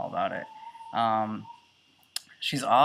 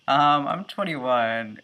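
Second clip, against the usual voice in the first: indignant correction; 4 semitones higher, 6 dB louder, much slower than usual. Retold or imitated. Correcting the waiter about age.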